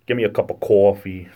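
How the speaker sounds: Rhode Island accent, broad CAW-fee; New York-style aw sound. Shown as a demonstration. Local orders a cup, New York-like Rhode Island accent. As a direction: lean on a New England aw in coffee. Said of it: "we do a lot of the aw sounds".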